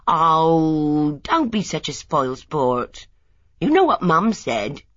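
put-on a young wife chiding her husband; mock exasperated. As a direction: tell him off for sulking. Lily scolding husband.

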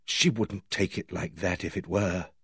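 low, soft, deliberate realisation; slow, heavy reply. A narrator's reading. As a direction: say it slowly, dropping low and soft. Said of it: "He said slowly".

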